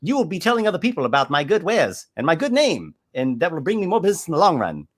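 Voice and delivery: butter him up to close the sale; pushy merchant. Acted. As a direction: GM voicing a smooth-talking shell merchant. Merchant NPC voice.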